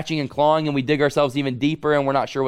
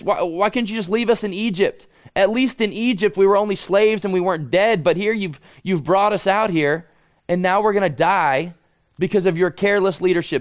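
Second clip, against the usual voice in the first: frustrated complaint; 5 semitones higher than usual. Acted. Voicing frustrated Israelites complaining to Moses.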